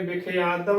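ਵਿਖਿਆਦਮ as "bi-khe-aa-dam"; ਵਿਖਿਆਦਮ with a long aa before the closing dam; correct pronunciation. Shown as a demonstration. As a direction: open the half y of ਵਿਖਿਆਦਮ into a vowel. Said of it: "ਸ਼ੁੱਧ ਉਚਾਰਨ ਕਿਵੇਂ ਕਰਨਾ ਹੈ".

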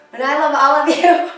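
a laugh breaking into the words; real laugh in the middle of the line; laughing fondly. Real, not acted. Online yoga teacher telling her students she loves them, laughing. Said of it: "I'm not laughing because I'm being a jerk".

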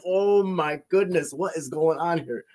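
slow, high, drawn-out wonder; retold amazement. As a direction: stretch it out in stunned disbelief.

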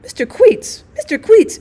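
high, loud bawled summons; bawling. A narrator's reading. Woman summoning the manager from the staff door, bawling. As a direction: bawl the name at a high pitch. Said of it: "she bawled".

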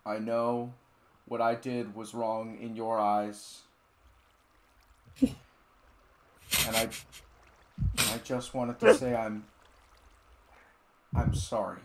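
hammed-up somber YouTuber apology; mock apology video.

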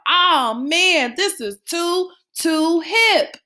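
put-on teen forgets to act cool; excited shout. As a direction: lose your cool completely. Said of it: "screamed out".

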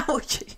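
high yelp through laughter; laughing cry of mock pain; playful "ouch". A narrator's reading. He gets hit on the arm.

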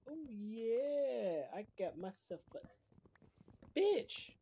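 high, drawn-out whoop of triumph; gleeful crowing. Pretend. Gleeful boast during game play.

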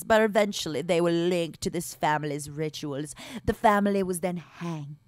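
measured ghost-story reading; dramatic story narration. Acted. Streamer reads the haunted barony's backstory to chat, story narration. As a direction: read the dark legend aloud, drawing out key phrases.

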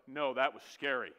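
mock timid admission. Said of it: "look at his son and go".

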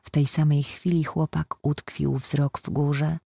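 ordinary delivery, nothing marked

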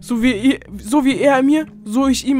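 vowing revenge. Acted. Kevin vowing revenge on Oxy, loud and vengeful. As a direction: swear it through clenched anger.

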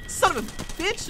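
high, very loud cry of protest; outraged yell. Real, not acted. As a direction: yelp it as if just hit. Just got hit in game.

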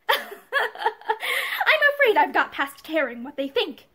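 slow words through a bitter laugh. A narrator's reading. Pansy to Joyce, a slow bitter laugh.

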